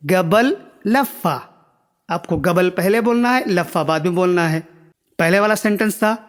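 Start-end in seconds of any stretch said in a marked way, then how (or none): 0.1-1.4 قبل لفہ drawn out slowly, word by word; slow demo. Shown as a demonstration. Teacher showing viewers the Arabic phrase, very slow. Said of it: "اس کو آپ بولو گے".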